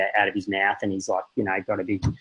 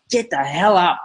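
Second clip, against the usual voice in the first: high-pitched, exasperated mock yell; retold raised voice; 7 semitones higher than usual. Dad at his wits' end with his son, retold raised voice. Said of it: "really raised my voice".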